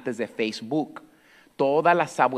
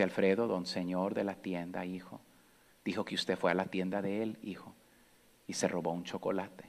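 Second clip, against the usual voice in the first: much softer, lowered, tender scolding; gentle grandma voice; 4 semitones lower, 10 dB quieter than usual. Retold or imitated. Grandmother gently asks her grandson about the theft, soft and tender. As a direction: speak like a frail, loving grandmother.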